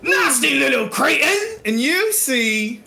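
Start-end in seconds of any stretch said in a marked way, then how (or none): 0.0-1.6 angry insult. Acted. Captor insults captive as hood comes off.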